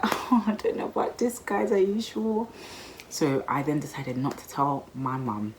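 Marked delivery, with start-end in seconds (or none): 0.0-2.5 much higher, hesitant and unsure; mock timid doubt. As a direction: play it small and nervous, backing away. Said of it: "But I was just like".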